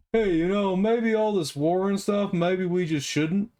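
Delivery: a kindly elf gently proposing peace; gentle elf voice. Pretend.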